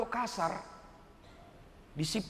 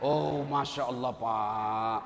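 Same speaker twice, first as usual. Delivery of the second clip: grateful wife; 10 semitones lower, 3 dB quieter than usual. Retold or imitated. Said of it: "ini istrimu di rumah".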